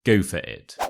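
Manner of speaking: "for" as a quick "fuh", no R; weak FOR. Shown as a demonstration. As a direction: run "Go for it" together as "go-fuh-it". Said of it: "for becomes a f".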